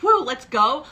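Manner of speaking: rally the room; hyped cheer. Retold or imitated. Coach showing high energy to her audience, hyped cheer. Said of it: "my energy is up here".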